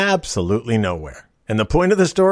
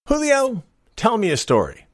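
high called-out name, then the order; a pirate captain summoning his mate; calling Julio from across the deck; 9 semitones higher than usual. Acted. Captain calls to first mate.

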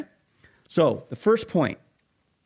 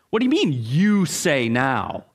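incredulous listener. Acted. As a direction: act out an affronted objection, leaning on YOU. Acting out a shocked listener.

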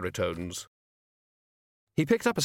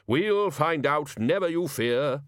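happily; 4 semitones higher, slower than usual. Acted. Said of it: "said Ridcully happily".

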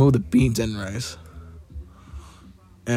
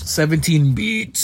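drawn-out, higher mock call; mock order call; 4 semitones higher, slower than usual. Co-host imitating the yelled food order, mock calling out. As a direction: mimic calling out an order, slowly.

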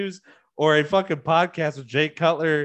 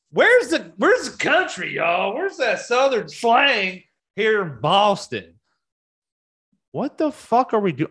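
high, put-on Southern twang; mock country twang; 8 semitones higher, 3 dB louder than usual. Mocking the Boston singer with a high Southern twang. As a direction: ham up a fake Southern accent.

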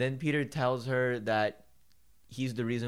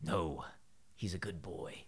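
hushed whisper; 6 semitones lower, 9 dB quieter than usual. Retold or imitated. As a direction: whisper it like a worried secret. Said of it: "Dinkelberg is like".

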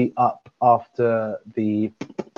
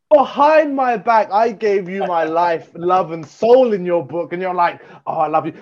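mock betrayal; 5 semitones higher than usual. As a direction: play the betrayed best friend. Mock jealous outrage at friend.

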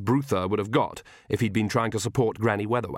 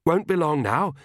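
higher, as if puffed; panting; 6 semitones higher than usual. A narrator's reading. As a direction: say it short of breath. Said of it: "he panted".

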